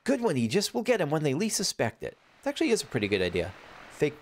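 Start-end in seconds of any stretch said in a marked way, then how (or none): 0.0-2.2 high hearty pirate; hearty high sailor voice. Acted.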